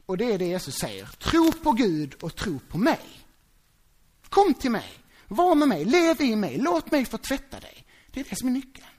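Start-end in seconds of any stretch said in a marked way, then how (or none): 1.1-7.9 slow, loud, raised voice for Jesus' plea; fervent call. Acted. Preacher voicing Jesus calling to his followers, slow loud plea. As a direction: plead it out slowly and strongly.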